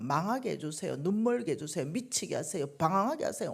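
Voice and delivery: loud, building string of curses; pouring-out angry prayer. Retold or imitated. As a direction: pour every curse out at God. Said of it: "오만 것 다 쏟아놓으니까". (하나님 앞에 분노를 쏟아내는 기도)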